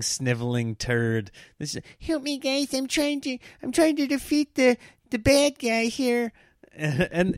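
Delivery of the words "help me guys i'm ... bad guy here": whimpering wimp. Retold or imitated. Husband showing wife's mockery of him, high whimpering whine. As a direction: beg like a sniveling little gamer. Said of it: "her impression of me is just this little whimpering".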